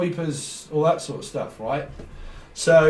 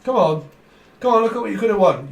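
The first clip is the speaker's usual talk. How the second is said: higher, lightly voiced game-show host teasing the loser; hammed-up quiz host, come on, look what you missed; Jim Bowen impression; 5 semitones higher, 4 dB louder than usual. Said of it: "it's a bit like Jim Bowen".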